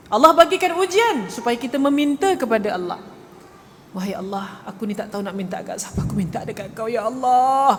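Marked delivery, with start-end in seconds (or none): 3.9-7.8 heartfelt plea. Acted. Believer calling on Allah in a trial, acted heartfelt plea. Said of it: "Panggil Allah dari hati".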